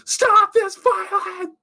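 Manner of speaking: high, loud, drawn-out mock yell; hammed-up shrieked command; pissed off. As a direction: imitate a furious outburst, stretched out.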